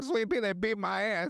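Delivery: mock high-pitched tattling; complaining victim. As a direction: run to a friend with a grievance. Acts victim complaining to friend.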